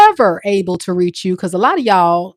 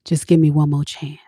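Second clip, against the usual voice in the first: pleading ex; 2 semitones lower than usual. Acted. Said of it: "they gotta get their voice right".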